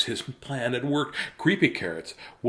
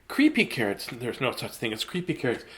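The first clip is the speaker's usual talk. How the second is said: firm, brisk dismissal; mum voice. Acted. Mum brushing off creepy carrots, brisk. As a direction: shake it off like an impatient mum. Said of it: "she said, shaking her head".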